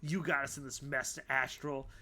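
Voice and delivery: Abby blaming Astral, anger building; accusing. Acted. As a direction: blame him, rising to loud fury. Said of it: "Abby's like".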